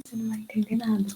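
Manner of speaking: breathy whisper, barely voiced; whispered demo. Shown as a demonstration. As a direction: drop to a whisper to show the weak voice. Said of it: "vai falar muito baixinho".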